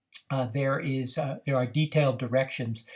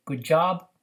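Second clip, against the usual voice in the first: put-on praise to child; 5 semitones higher, 7 dB louder than usual. Shown as a demonstration. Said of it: "You say".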